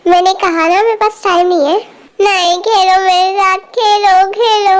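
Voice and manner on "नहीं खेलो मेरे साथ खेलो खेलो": lightly voiced pestering child; insistent child. Little girl will not take no, whiny insistence. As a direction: keep begging like a little kid.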